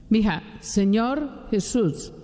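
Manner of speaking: Señor Jesús drawn out slowly, coaxing; slow coaxing dictation. Retold or imitated. Preacher urging the girl to repeat, slow and coaxing. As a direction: lead her gently through Señor Jesús. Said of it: "Mija, repita conmigo".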